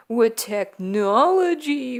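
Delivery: rising, drawn-out hammy menace; mock spooky threat. Hackers threatening the country on a hijacked broadcast, mock spooky. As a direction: stretch it upward like a silly villain.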